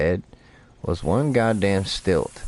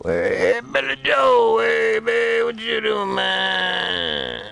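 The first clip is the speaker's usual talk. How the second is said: mock shout to a fish; much slower than usual. Calling to a fish as his pal Billy Joe, very high mock shout. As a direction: yell at the fish like an old buddy.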